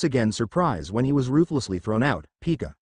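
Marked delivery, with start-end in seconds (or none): 2.4-2.7 Pikachu cry. A narrator's reading. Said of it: "cried the Pikachu as it glared".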